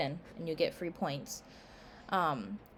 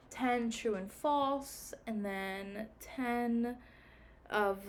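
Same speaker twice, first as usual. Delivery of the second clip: talking through a yawn; stretched words mid-yawn; 4 semitones higher, 4 dB quieter, much slower than usual. Real, not acted. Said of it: "I don't yawn until I get on here".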